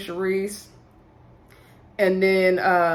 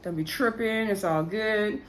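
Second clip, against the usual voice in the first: softly imitated reassurance; consoling; 5 dB quieter than usual. LJ consoling a crying friend, lightly acted soothing. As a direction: play a soothing friend, a little softer. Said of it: "L J's trying to console her".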